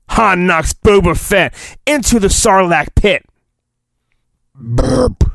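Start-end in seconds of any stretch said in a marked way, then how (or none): 4.5-5.2 fake burp. Shown as a demonstration. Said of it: "I can never burp on command".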